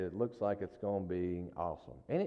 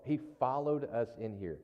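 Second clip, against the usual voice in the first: ordinary delivery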